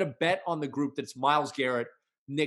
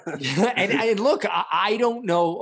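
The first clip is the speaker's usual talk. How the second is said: laughing; 6 semitones higher, 4 dB louder, slower than usual. Real, not acted. Laughing at kicker love jab.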